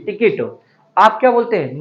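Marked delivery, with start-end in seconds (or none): 0.1-0.6 "टिकट" said as ti-kit; short i in both syllables of "टिकट"; correct pronunciation of ticket. Shown as a demonstration. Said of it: "इसे बोलते हैं".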